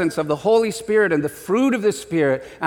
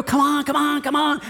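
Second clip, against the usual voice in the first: impatient cheering; 8 semitones higher than usual. Retold or imitated. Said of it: "we're eating popcorn and go".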